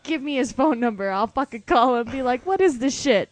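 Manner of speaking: mock tirade at store staff; pushy, angry customer. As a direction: act out a customer demanding the manager. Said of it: "just as angry as you".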